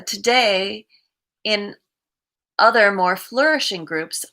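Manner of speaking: measured read-aloud of a reflection. Acted. Streamer reads the day's recovery reflection to viewers, measured reading. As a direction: read it out evenly, pausing between sentences.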